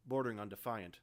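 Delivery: ordinary delivery, nothing marked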